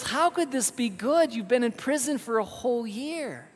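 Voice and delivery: high-pitched disbelieving protest; incredulous. Acted. King to servant jailed a year, incredulous high protest.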